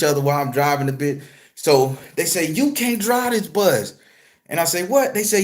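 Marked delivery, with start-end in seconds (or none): 2.5-3.9 higher, drawn-out protest, retold; mock objection. Firefighters refusing the driver, mock objection. 4.8-5.1 higher, questioning retort; mock surprised. Storyteller answering the firefighters, mock surprised. Acts own baffled reply.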